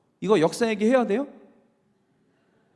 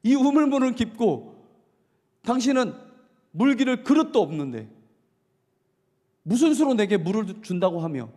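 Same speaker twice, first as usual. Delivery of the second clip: scoffing woman's retort, mocking tone; sneering; 3 semitones higher than usual. Samaritan woman sneering at Jesus at the well. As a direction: sneer at the stranger's offer. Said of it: "이렇게 비아냥거리는 거예요".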